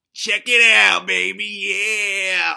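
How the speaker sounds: loud, high show-off yell; boastful shout. Acted. Host flexing for viewers, shouting in triumph. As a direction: crow it like a bodybuilder posing. Showing off his flexed body.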